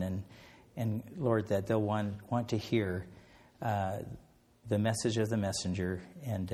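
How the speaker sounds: a sincere closing prayer. Acted. Closes the talk in prayer.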